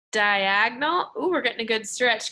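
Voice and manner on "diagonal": "diagonal" drawn out slowly; slow stretched word. Shown as a demonstration. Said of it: "Do this with me and say".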